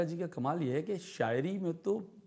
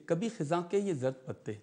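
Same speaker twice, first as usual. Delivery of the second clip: measured, lilting verse reading; poetic recitation. Acted. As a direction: recite each line with pauses. Recites nazm Zard Patte.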